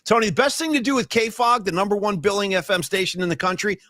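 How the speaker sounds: mock-serious sarcasm; deadpan sarcastic put-down. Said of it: "I'm being sarcastic as I can be".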